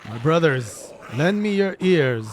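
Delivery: grand, slow theatrical oration; gentlemanly zombie leader. Acted. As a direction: address the undead like a noble orator.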